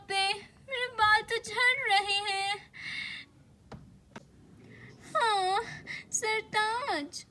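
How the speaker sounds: mother in a mild panic, pitch lifted, stretching the words; hammed-up dismay over falling hair; alarmed mama. Wife waking husband Sartaj over hair on the pillow, alarmed.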